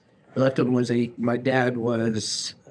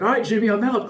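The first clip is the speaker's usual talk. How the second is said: laughing quote; 8 semitones higher, faster than usual. Retold or imitated. Quoting Troy tapping out.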